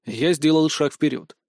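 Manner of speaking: ordinary delivery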